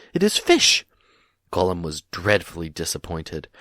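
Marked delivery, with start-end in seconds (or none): 0.1-0.8 higher, louder gloat; gleeful creature cry. A narrator's reading. Gollum gloats over the riddle, gleeful and shrill. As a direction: crow over the answer. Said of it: "he cried".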